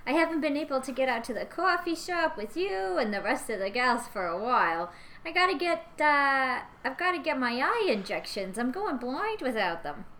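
put-on a sweet chatty old woman; old lady voice. Plays Georgina.

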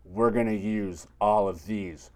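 slow, macho declaration; mock bold line. Dave barging in with condoms, slow and cocky. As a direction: lay it down like a cocky boyfriend. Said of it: "and be like".

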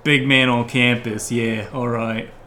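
brash dock worker hollering at the rich; a poor fisherman heckling the fancy crowd, brash and loud; rough fisherman. Acted. Fisherman character.

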